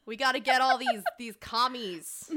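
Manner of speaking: put-on loud American accent, drawing out the last words; hammed-up American commie-hunter. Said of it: "like an American saying communist".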